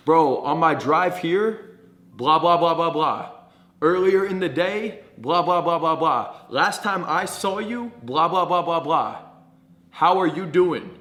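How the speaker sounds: projected small talk with drawn-out lead-ins; loud, energetic chat. Shown as a demonstration. Coach mimicking small talk with a friend, loud and animated. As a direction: chat away so bystanders notice. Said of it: "Talk at a loud volume".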